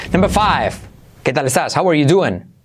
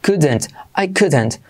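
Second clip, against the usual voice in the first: English couldn't with a clear d; British dropped r on better; British accent; slower than usual. Shown as a demonstration. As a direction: demonstrate England's pronunciation, unhurried. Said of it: "creo que lo dicen así en Inglaterra".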